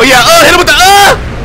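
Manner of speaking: high, excited play-by-play outburst; excited exclamation. Real, not acted. Streamer cheering a blow in the fight, high excited yell. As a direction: punch out the grunts like you're landing hits.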